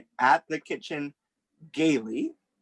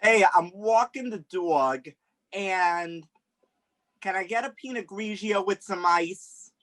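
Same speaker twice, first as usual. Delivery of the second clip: put-on Long Island accent, raised pitch; 3 semitones higher than usual. Podcast guest gives accent clues for a guessing game, hammed-up Long Island accent. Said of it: "Long Island".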